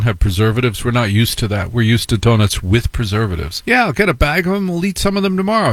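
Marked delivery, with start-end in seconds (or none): 3.7-5.7 higher, fast breezy voice; mock carefree donut buyer; naive buyer. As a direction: toss it off carelessly.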